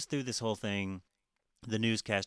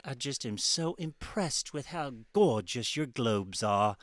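imitating Paul Hollywood; 2 semitones higher, 3 dB louder, slower than usual. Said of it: "he was like".

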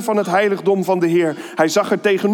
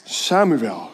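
voice of God; 6 semitones lower than usual. A narrator's reading. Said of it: "Toen riep de Heer".

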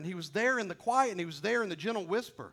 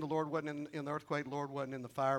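hushed; 4 semitones lower, 6 dB quieter than usual. Acted. Preacher hushes on the still small voice.

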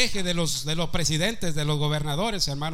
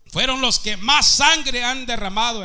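preaching shout; 6 semitones higher, 6 dB louder than usual. Real, not acted. Predicador clama sobre los nazis.

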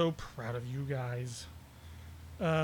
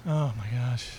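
whispered; 4 semitones lower, slower than usual. Real, not acted. Whispered reaction to partner.

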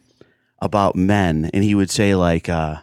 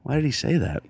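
mock audience bewilderment; 7 semitones higher than usual. Audience member reacting to the joke, mock bewilderment. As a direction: imitate a stunned onlooker.

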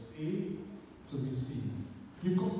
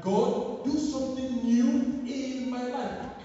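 fervent prayer cry; 4 semitones higher, 5 dB louder, slower than usual. Acted. Crying out prayer to God.

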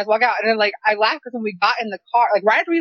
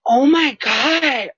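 mock gasp; 2 semitones higher, much slower than usual.

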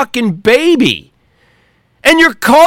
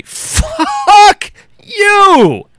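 furious shout; 11 semitones higher than usual. Real, not acted. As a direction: yell it straight at them. Ranting at complaining gun owners.

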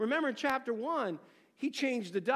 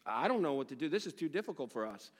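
lightly voiced helpless plumber, lower and unsure; a hint of a baffled plumber, lower; clueless plumber; 6 semitones lower than usual. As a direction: play the tradesman who gives up. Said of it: "the plumber gets there and goes".

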